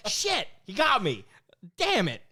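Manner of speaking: high, loud, laughing concession; laughing defeat. Retold or imitated. Conceding to the coworker about the fig tree, high and laughing. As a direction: give up the game with a laugh. Admits the coworker was right.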